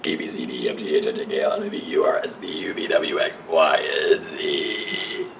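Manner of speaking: low burped letters; burping the words. Shown as a demonstration. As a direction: burp each letter out. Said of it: "I just recently learned the A B Cs".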